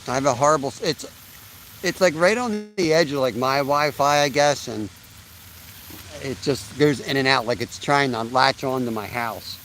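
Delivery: talking while munching an apple; words round a bite of apple; mouth full. Real, not acted. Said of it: "I'm just munching on an apple".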